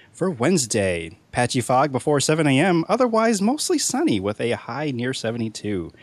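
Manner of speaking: newscaster weather forecast; weather report read. Acted.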